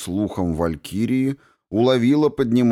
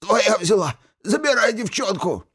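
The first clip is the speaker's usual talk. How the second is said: gurgling alien voice; 14 semitones higher than usual. A narrator's reading. Wounded archmage pleads under sword.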